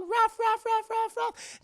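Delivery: high, loud barking; rapid mock barks; robot dog. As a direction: imitate a yapping robot dog. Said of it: "a robot dog going".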